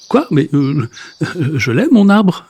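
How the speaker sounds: put-on a mild stammered protest from the old man; stammering protest. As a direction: stumble over the words, then plead for the tree. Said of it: "proteste Monsieur Marcelin".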